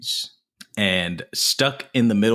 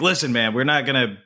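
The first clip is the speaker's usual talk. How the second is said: rising into a higher, mock-exasperated voice by the end; half-acted gangster rant, going higher; quoting a tough guy; 5 semitones higher, faster than usual. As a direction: play the hothead laying down the law, climbing in pitch. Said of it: "And he's like".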